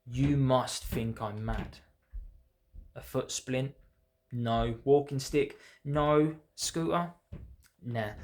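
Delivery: rhythmic recital with deliberate pauses; poem reading. Acted. Poet reads own poem about refusing then accepting mobility tools, measured recital. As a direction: read it as verse, setting each short phrase apart.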